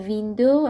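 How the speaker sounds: "ویندو" with a Persian v; mispronounced V for W. Shown as a demonstration. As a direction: start "ویندو" on v, teeth on lip. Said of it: "ولی اگه من بگم ویندو". («ویندو» با واو فارسی)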